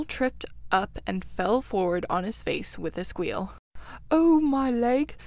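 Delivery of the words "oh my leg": slow, raised wail of hurt; injured yelp, louder and higher; pained cry. A narrator's reading. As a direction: cry out in pain, drawing the words out. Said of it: "he cried".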